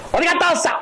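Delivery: high, sharp wife nagging her husband; suspicious wife. Retold or imitated. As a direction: grill him like a suspicious wife. Nagging wife in sermon example.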